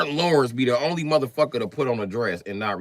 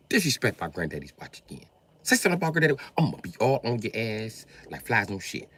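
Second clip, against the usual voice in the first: Eddie Murphy; faster than usual. Acted. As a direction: do a rough imitation of a ranting comic. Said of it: "only piece of Eddie I can even muster up".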